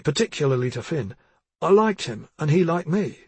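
put-on pleading, guilty young man; anxious young constable. Voices Ruddock.

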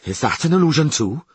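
nervous. Acted. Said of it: "Adario Bach swallowed".

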